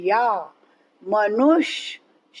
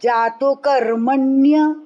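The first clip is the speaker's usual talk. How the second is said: कर्मण्य with the weight on the first syllable कर; stress on कर. Shown as a demonstration. Teacher drilling students on the stress in कर्मण्य. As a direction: hit कर in कर्मण्य before the cluster. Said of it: "कर्म पर आघात".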